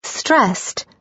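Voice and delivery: high, breathy and accusing; breathy accusation. Acted. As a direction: breathe it out with reproach. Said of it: "her naturally breathy voice conveying more than a little accusation".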